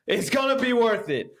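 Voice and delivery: high-pitched, insistent reassurance; insistent pep talk. Retold or imitated. Retold pep talk to fed-up wife.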